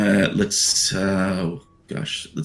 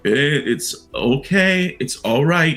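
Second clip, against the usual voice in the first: soothing nurse; 4 semitones higher than usual. Acted. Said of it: "another voice inside being like".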